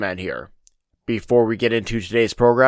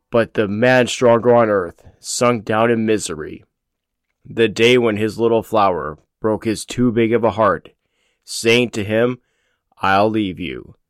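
poem recitation. Acted. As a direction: read it like a mournful ballad.

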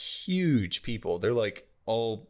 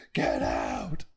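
curt dismissal; 11 semitones lower than usual. Retold or imitated. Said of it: "he just snaps on the kid".

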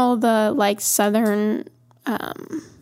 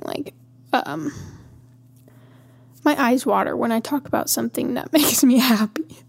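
teary. Real, not acted. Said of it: "I'm, like, crying".

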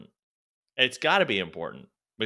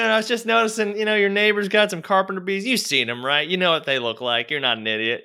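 salesman imitation; 10 semitones higher than usual. Mimicking the door-to-door salesman to friends, high and pushy. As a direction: ham up the pushy salesman's patter. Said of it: "he goes, he goes".

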